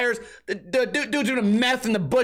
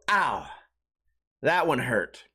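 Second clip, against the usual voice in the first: mock wounded; 9 semitones lower, slower than usual. Hurt reaction.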